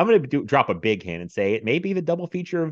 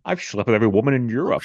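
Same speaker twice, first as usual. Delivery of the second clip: Sean Connery. Retold or imitated. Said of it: "the Connery impressions".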